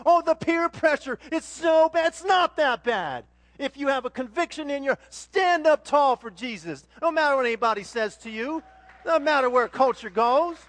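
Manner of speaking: loud preaching, pushed hard; fiery sermon shouting; yelling. Real, not acted. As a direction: preach it at full volume to the crowd. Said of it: "Why, I'm yelling, aren't I?".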